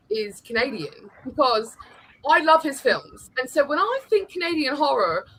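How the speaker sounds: put-on deliberate English accent. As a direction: play it eloquently English. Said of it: "say the other two with an English accent".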